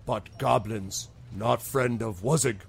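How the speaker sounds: slow troll turning serious. Acted. Troll warning travelers about goblins, slow and serious. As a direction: say it slowly and gravely, pausing midway. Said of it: "he gets very serious for a moment".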